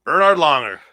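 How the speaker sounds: big, high-energy reveal of the champion; hyped name drop. Real, not acted.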